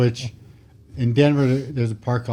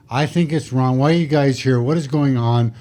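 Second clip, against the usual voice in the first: mock angry rant; 4 dB louder than usual. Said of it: "He's just losing his mind".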